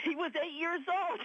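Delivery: laughing through the joke, pitch up high. Real, not acted. To the host, joking that Dan Brown was a child, laughing. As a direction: chuckle the words out, amused.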